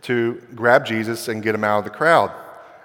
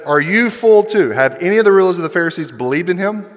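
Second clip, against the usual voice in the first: higher-pitched acted disbelief; arrogant; 4 semitones higher, faster than usual. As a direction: challenge them with mock superiority. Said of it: "arrogant thing to say".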